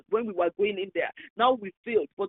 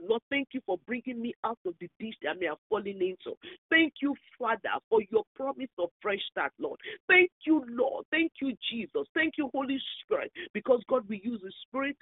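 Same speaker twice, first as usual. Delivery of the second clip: prayer; 2 semitones higher than usual. Real, not acted. Leads thanksgiving prayer.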